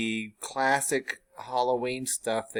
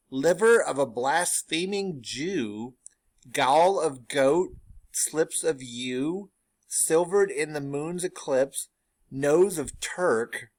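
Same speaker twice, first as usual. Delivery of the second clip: slow, louder, wild witch recital; crazed witch; 4 semitones higher, 4 dB louder, slower than usual. Acted. Teacher voices the third witch going crazy, loud and slow. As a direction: rant the ingredients like a mad witch. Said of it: "the third witch goes crazy".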